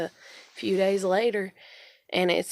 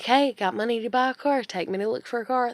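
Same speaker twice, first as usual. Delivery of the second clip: raised, insistent ask; demanding; 5 semitones higher, 4 dB louder than usual. Retold or imitated. To her parents about car shopping, raised insistent demand. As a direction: push the parents for a ride, louder.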